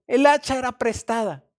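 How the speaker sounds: exclamación fuerte y aguda; grito angustiado. Retold or imitated. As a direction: clama que el hacha era prestada. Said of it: "gritó". (exclamación alarmada actuada)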